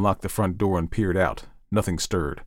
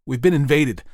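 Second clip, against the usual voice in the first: higher, insistent, emphatic warning; alarmed Ed; 8 semitones higher, 4 dB louder than usual. Acted. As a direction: warn them of an invasion, pressing each phrase.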